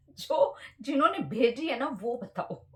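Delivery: words spilling out through a real laugh. Real, not acted. Vlogger laughing to viewers over the Shalu-Shalini mix-up, laughing. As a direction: laugh at your own confusion as you ask.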